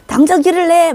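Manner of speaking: high, loud scolding shout; thundering rebuke. Retold or imitated. Leader scolding the one behind him, loud rebuke. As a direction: roar an order at the follower. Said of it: "호통을 치는 거예요".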